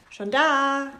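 Schon da called high and loud; calling out. Acted. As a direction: shout it toward the door. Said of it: "rief Frieda".

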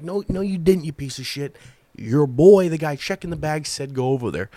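retold indignant comeback, pitch jumping; retold fuming. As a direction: argue back, mock fuming. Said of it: "And I'm fuming".

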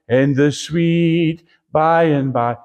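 slow, wistful mocking of "one day"; slow mock dreamy drawl. Preacher mocking believers who wait for heaven, slow and dreamy. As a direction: stretch out "by and by" like a daydream.

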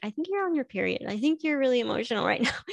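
telling daughter. Retold or imitated. Mother tells daughter she's on her period, quick light teasing. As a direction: tease her lightly and fast. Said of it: "I can tell my daughter, like".

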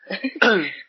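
chesty cough. Real, not acted. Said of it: "Nauubo, nauubo kasi ako".

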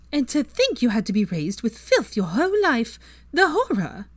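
sugary sweet fake voice. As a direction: purr it out with fake sweetness, meant to needle. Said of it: "her sugary sweet fake sissy voice".

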